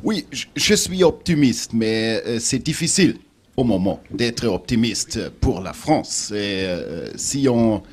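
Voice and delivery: halting French with a German accent; broken french. Real, not acted. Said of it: "pardonnent que mon français n'est pas parfait".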